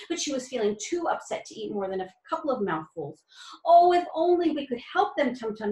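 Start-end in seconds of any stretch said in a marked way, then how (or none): 3.6-5.7 a mock helpless plea rising high; helpless groan. Nutmeg pleading to Tum Tum, mildly helpless. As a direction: lightly wail the wish, half-hearted. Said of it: "she groaned helplessly".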